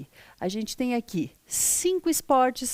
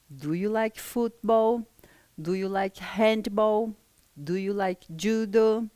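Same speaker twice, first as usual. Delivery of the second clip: slow drill questions; slower than usual. Shown as a demonstration. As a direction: do you like asked slowly, each clear. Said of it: "Repita uma vez cada uma dessas palavrinhas". (pergunta modelo, devagar e clara)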